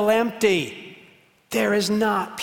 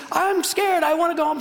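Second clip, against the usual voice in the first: put-on high-pitched little girl pleading; scared, yelling child; 11 semitones higher than usual. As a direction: imitate a frightened child's wail. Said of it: "she kept yelling and yelling".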